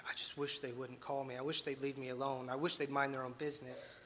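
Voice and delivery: low, soft grumble to oneself; acted grumbling. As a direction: play someone privately griping about a caller. Voicing someone dodging unwanted calls.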